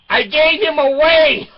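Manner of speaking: high, loud, carefree daughter voice; breezy teen daughter. Retold or imitated. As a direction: toss it off like a careless teenager.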